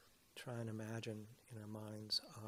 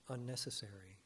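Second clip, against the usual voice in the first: unnecessary lifted and louder, each syllable held; stress on unnecessary; 5 dB louder than usual. Shown as a demonstration. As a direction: lean into the word unnecessary. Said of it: "And I stress the word unnecessary".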